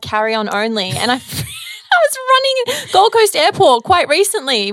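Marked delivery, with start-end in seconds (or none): 1.2-4.7 laughing loudly while talking. Real, not acted. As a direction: talk through big laughter. Laughing while telling story.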